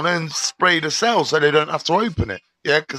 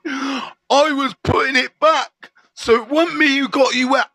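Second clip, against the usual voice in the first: mock innocent excuse to the guard; 6 semitones higher than usual. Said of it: "This is what I said".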